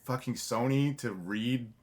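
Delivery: high-pitched, disbelieving demand; imitated incredulous friend. Friend reacting to news of the studio table read, incredulous. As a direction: act out a friend's astonished scolding. Friend astonished at guest's calm.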